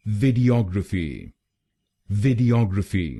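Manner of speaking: वीडियोग्राफी with the stress on "og", vid-ee-OG-ruh-fee. Shown as a demonstration. Teacher stressing the third syllable of वीडियोग्राफी. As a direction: lean into the og of वीडियोग्राफी. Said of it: "तीसरे शब्दांश पर यानी ओजी पर जोर डालना है".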